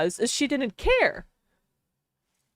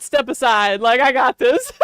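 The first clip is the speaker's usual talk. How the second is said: mock dog voice; 6 dB louder than usual. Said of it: "The Shih Tzu said".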